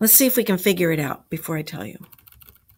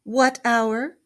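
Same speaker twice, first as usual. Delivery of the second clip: a touch of unease, raised pitch; uneasy; 4 semitones higher than usual. A narrator's reading. The rat questions the serious badger, uneasily. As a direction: ask it a little nervously, rising at the end. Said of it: "asked the rat uneasily".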